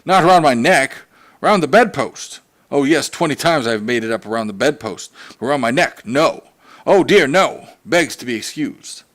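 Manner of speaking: sarcastic father about his tie; dangerously sarcastic. Acted. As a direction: sneer at the stubborn tie. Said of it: "he became dangerously sarcastic".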